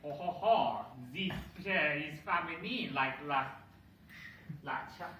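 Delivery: lightly put-on French accent; mock French accent with a chuckling "oh ho ho". Comedian playing the French speaker claiming the chair, in a French accent. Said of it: "And the French goes like".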